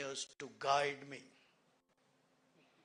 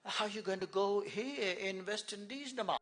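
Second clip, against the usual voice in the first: slightly raised West Indian lilt; West Indian accent; 5 semitones higher, 3 dB louder than usual. Retold or imitated. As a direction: lightly imitate a West Indian youngster's question. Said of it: "this is how they speak".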